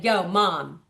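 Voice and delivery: mild cool calming; casual reassurance. Retold or imitated. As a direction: tell the mom to relax easily.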